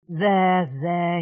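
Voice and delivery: gentle comforting there there; soothing. Acted. Amos soothing weeping Rachel. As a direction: soothe a distressed child. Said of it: "he said soothingly".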